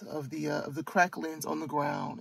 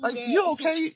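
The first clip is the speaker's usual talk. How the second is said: higher, mildly exasperated mom voice; impatient reassurance; 9 semitones higher than usual. Retold or imitated. Mother retelling what she told her crying daughter, mildly impatient higher voice. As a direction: hurry her along while saying it's okay. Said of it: "to me, I was like".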